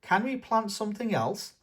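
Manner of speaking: put-on high, eager little-girl plea; squeaky child asking grandpa; Peppa's voice. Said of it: "asks Peppa".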